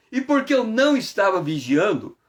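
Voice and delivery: ordinary talk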